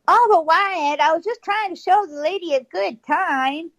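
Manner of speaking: high-pitched mock protest to Wyatt; whining protest. Retold protest by Ike to Wyatt.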